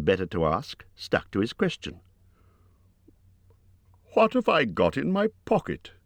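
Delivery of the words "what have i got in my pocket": raised, higher and louder. Acted. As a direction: push the question out louder. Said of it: "he said louder".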